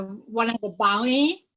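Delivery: loud British "bounty", rising at the end; British accent. Shown as a demonstration. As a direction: say "bounty" British-style, swallowing the t. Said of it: "very British in a British accent".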